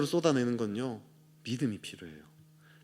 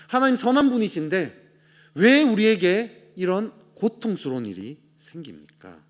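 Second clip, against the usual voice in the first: pleading servants; 2 semitones higher, 6 dB louder than usual. Acted. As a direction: voice the servants asking why. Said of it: "종들의 물음은 이거예요". (주인에게 왜냐고 묻는 종들의 높고 큰 호소)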